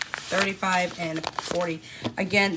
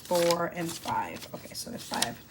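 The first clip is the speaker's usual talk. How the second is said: counting under breath; 2 semitones lower, 6 dB quieter than usual. Real, not acted. Mother counting out ones to herself, whispering. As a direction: count softly in a whisper, barely voiced.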